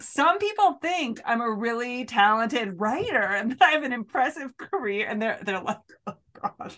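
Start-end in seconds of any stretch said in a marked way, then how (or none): 0.0-5.1 higher-pitched, pleading self-promotion, played for laughs; desperately trying to impress. Writer boasting to own unimpressed kids, mock desperate to impress. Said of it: "like I'm desperately trying to impress them". 6.1-6.7 softly groaned, voiceless dismay; mock cringing. Kids hearing their parent boast, imitated cringe.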